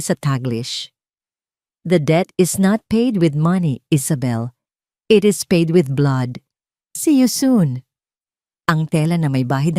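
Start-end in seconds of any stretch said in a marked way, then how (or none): 1.9-7.9 slow, louder sinister read of the note; a louder, slower, sinister reading of a blood-stained threat; menacing threat. Acted. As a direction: make the threat land coldly.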